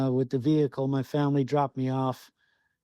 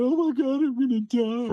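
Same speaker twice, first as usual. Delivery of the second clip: high-pitched retold panic; mock panic; 10 semitones higher, 3 dB louder than usual. Hunter retells the moose walking right at him, mock panic. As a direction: play up the terrified thought, voice jumping way up.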